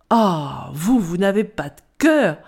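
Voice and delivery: indignant cry. Acted. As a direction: scold her for being heartless. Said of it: "s'écria indignée la pomme golden".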